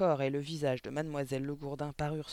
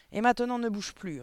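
high, loud order; sharp command; 8 semitones higher, 8 dB louder than usual. A narrator's reading. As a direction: order the punished boy to freeze. Ordre de la directrice au puni. (ordre sec, aigu et fort)

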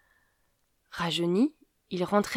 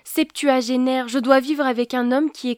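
complaining; 5 semitones higher, 6 dB louder than usual. A narrator's reading. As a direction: drag it out, ashamed. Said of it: "elle se plaignit".

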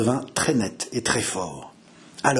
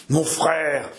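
madman's voice; 3 semitones higher than usual. Acted. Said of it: "murmura François d'une voix de fou".

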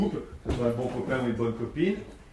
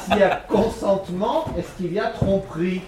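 repeated louder and higher; 5 semitones higher, 5 dB louder than usual. Shown as a demonstration. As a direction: say it again louder for the room. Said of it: "je répète un petit peu plus fort".

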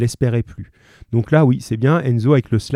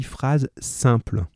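slow emphasis; 5 dB quieter, much slower than usual. Shown as a demonstration. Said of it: "Le vrai nom en grammaire".

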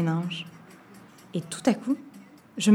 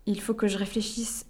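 whisper; 4 dB quieter than usual. Acted. Stalling the witch.

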